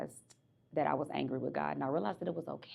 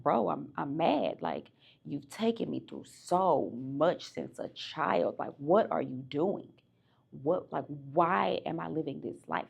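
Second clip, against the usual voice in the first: louder, exasperated venting, retold; mad at God; 3 dB louder, slower than usual. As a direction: let the frustration spill out at God.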